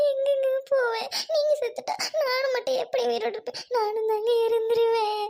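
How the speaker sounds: sobbing through the plea; a wife sobbing as she begs her husband to stay; tearful pleading. Acted. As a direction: beg him through tears not to go. Wife begs husband not to leave.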